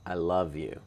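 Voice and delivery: "love" carries the weight, "you" falls away; stress on love. Shown as a demonstration. Cohost giving the standard default, stress on "love". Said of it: "puts the emphasis on love".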